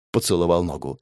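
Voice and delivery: ordinary delivery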